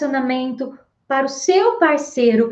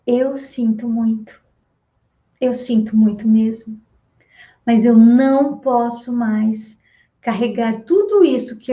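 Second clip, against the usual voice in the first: guided meditation phrase; 2 semitones lower than usual. Acted. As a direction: say it calmly to the partner as a release.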